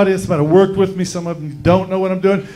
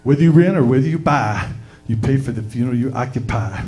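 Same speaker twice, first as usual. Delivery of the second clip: radio ad read; 5 semitones lower than usual. Acted. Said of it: "my little radio spot".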